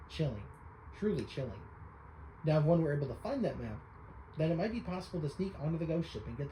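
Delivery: lightly voiced old sage, spooky tale; old storyteller voice. Voicing the islander telling young Link a spooky legend, lightly hammed. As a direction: spin the ghost-ship legend with relish. Reads NPC lines in voice.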